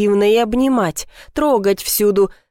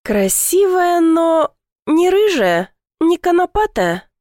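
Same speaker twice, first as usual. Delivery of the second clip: higher, slow teasing voice; teasing question; 8 semitones higher, slower than usual. A narrator's reading. Platonov teasing Ulyana about her rival, higher and slow. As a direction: tease her by drawing out each word. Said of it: "поинтересовался Платонов".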